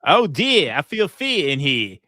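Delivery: sarcastic fake fear; mock alarm. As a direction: feign fright sarcastically. Mocking the fear test.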